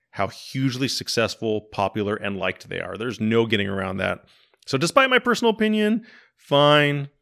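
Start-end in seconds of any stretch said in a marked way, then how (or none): 4.7-7.1 begrudging. Real, not acted. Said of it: "The Begrudging, fine".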